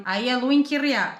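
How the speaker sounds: slow, careful "luin kirja"; slow Finnish demo. Shown as a demonstration. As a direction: spell out "luin kirja" slowly. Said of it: "se você leu só algumas páginas".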